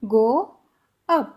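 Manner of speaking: "go" and "up" with pauses between; slow word by word. Shown as a demonstration. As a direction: drill it slowly. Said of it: "English में कैसे बोलेंगे". (रुक-रुक कर धीरे)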